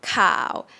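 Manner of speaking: "cow" starting low and sinking. Shown as a demonstration. Teacher models the Thai low tone, sinking "cow". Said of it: "low tone".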